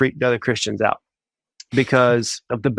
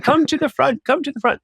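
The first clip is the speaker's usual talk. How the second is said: a much higher, hammed-up Romanian preacher accent; Romanian accent impression; 14 semitones higher than usual. Guest imitating Georgian Banov's altar call in a high Romanian accent. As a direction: butcher a Romanian accent, pitched way up. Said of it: "I'm butchering his accent right now".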